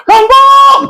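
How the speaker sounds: long calling yell across the village; loud Batak bengok call; Batak shout. Shown as a demonstration. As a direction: bellow the name out to far-off kids. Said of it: "Kenapa suara Batak itu bengok?".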